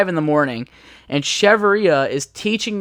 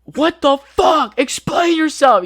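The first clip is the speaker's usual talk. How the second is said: higher, slow, furious demand; angry drill sergeant; 11 semitones higher, 3 dB louder, slower than usual. Retold or imitated. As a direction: drag it out like a sergeant who wants answers. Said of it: "The drill sergeant's like".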